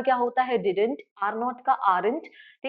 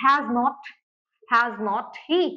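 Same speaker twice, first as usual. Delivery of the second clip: slow, drawn-out wrong form; much slower than usual. Retold or imitated. Teacher imitating a student's mistake, slow. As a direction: spell out "has not he" slowly. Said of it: "वो ऐसे लिख देते हैं".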